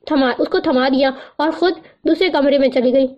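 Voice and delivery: plain reading voice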